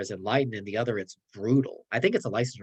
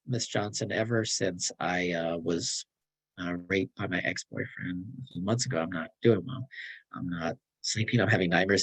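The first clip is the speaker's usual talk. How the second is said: lightly voiced troubled student; 4 semitones lower than usual. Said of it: "Janie walks into your clinic and says".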